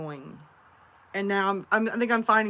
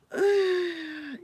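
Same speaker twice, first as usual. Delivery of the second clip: sigh; 9 semitones higher than usual. Real, not acted. Reacting to viewer's teasing.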